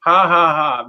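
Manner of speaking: mock followers jeering a critic; mocking taunt. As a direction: taunt like a smug troll. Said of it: "they will start saying".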